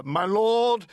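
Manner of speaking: loud, high plea to the judge; a man calling out to the judge again; venturing a cry. Acted. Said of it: "ventures another".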